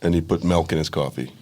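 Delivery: low, soft Missouri accent; lightly flattened Midwestern vowels. Shown as a demonstration. Missouri native describing dad's drinks, Midwestern accent. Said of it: "you start talking like that".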